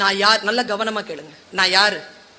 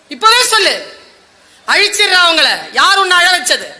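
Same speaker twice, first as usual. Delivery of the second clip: higher and louder demand; protective anger; 4 semitones higher, 4 dB louder than usual. Retold or imitated. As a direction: demand names, ready to destroy them. Krishna furious at Draupadi's tormentor. (கோபமான உயர்ந்த குரல்)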